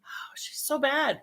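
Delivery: slow, soft unvoiced whisper. Real, not acted. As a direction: whisper it like a playful accusation. Teasing whisper about friend.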